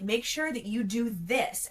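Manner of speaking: slow, weighted "Make sure that you do this"; each word of "Make sure that you do this" spelled out slowly; bolded words. Shown as a demonstration. Writer reading out a bolded email line, slow and emphatic. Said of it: "and I'll bold it".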